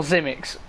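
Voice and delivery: Zimix begun with a buzzed Z; alternative pronunciation. Shown as a demonstration. Commentator guessing a driver's name, Zimix said with initial Z. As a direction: try Zimix as two syllables, Z first. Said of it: "or Zimix or Sisimics?".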